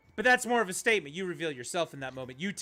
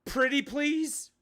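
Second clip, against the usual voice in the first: higher, slow, sing-song pleading; mock pleading; 8 semitones higher, much slower than usual. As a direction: drag it out like a sarcastic beg. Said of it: "stood there in disbelief going".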